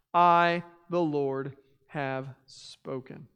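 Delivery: measured, solemn Bible reading; scripture reading. Acted. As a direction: read the prophet's words with weight. Reads scripture aloud.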